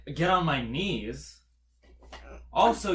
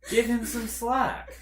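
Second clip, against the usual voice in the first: mock pleading; 9 semitones higher, 5 dB louder, slower than usual. Real, not acted. Joking defense of devil.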